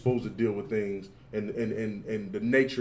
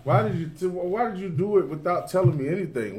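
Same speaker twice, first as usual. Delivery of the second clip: higher, heated father-in-law demanding answers; a hint of hot-tempered Laban; 6 semitones higher than usual. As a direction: press him like an angry in-law. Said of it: "Laban wants to know".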